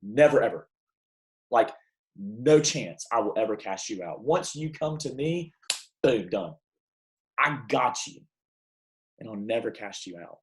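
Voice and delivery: firm, reassuring finality; authoritative assurance. Retold or imitated. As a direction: state it as settled fact. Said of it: "with the authority of God".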